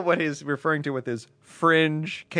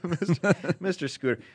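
laughing; 4 semitones higher, slower than usual. Acted. Mocking caller's name.

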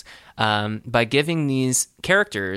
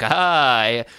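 hammed-up villain threat with mock laugh; mustache twirling villain; 4 semitones higher than usual. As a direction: gloat like a cartoon villain. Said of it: "the mustache twirling villain".

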